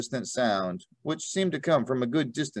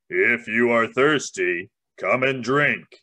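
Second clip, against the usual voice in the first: weighty, golden-toned lion's voice. Reading a story aloud, voicing the lion's words in a heavy, golden voice. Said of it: "a sort of heavy, golden voice".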